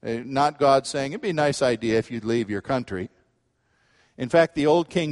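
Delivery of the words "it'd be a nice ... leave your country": quick, low, casual suggestion; offhand, lower and hurried; mere suggestion. Acted. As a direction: toss it off as an optional idea. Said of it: "It's not a suggestion".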